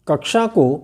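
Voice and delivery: कक्षा said as kakchha; कक्षा with a छ sound, the mistaken way; wrong क्ष as छ. Shown as a demonstration. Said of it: "इस तरह से बोल देते हैं". (कक्षा को "कक्छा" जैसा गलत उच्चारण)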